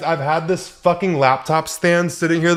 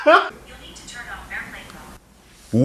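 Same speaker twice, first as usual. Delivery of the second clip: Siri voice; 8 semitones higher, 5 dB quieter than usual. Real, not acted. Siri speaks from her phone.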